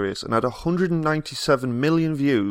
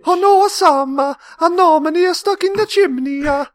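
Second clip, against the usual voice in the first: very high squeaky cartoon voice, a bit louder; Fireman Sam character; 5 dB louder than usual. Quoting a kids' cartoon fireman, very high and squeaky.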